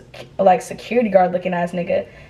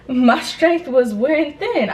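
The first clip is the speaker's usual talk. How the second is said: slow words through a laugh; real amused laugh, pitched up; laughing while talking; 5 semitones higher, slower than usual. Real, not acted. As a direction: laugh at yourself as you admit it. Laughing at her own fading nerve.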